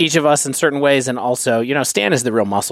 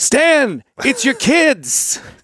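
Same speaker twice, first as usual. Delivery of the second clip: very high-pitched mad-scientist voice; 13 semitones higher than usual. Podcast host pitches a future-episode bit to his co-host; Doc Brown impression. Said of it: "that's a pretty good Doc Brown impression".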